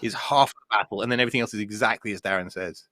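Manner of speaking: talking with a mouthful of cake; mouth full. Real, not acted. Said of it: "Sorry, I'm gonna mouth cake".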